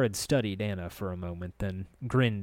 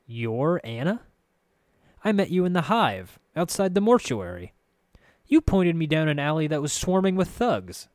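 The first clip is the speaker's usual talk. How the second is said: lightly acted indignation, raised and louder; accusing protagonist; 7 semitones higher, 6 dB louder than usual. Narrator confronting the girl who misdirected him, accusing. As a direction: confront her, pitched up and pressing.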